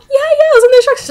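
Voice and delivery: high, loud, rushed comeback; insistent protest. Retold or imitated. Student contradicting the teacher about instructions, insistent.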